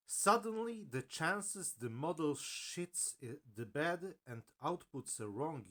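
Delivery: mock dramatic reading, high and slow; very high pitch. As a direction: read it like an overblown headline, slowly. Reading the article's dramatic claim.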